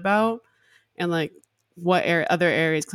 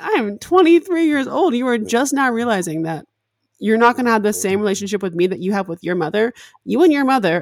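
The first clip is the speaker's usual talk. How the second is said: much higher, louder, fed-up retold rant; exasperated; 4 semitones higher, 6 dB louder than usual. To her mom over breakfast, loud exasperated rant. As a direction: hammer home her age in anger. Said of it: "I'm like".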